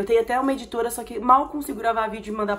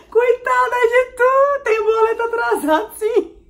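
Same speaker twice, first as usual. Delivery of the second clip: very high, loud hilarity; squealing, drawn-out amused admission; laughing confession; 9 dB louder, slower than usual. Real, not acted. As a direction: wail it through laughter. Laughingly admits to overdue bills.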